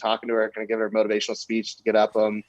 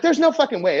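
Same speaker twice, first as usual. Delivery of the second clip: high-pitched incredulous outburst; incredulous exclamation; retold disbelief; 12 semitones higher, 4 dB louder than usual. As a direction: act out stunned disbelief, pitch jumping up. Retold disbelief at missing car.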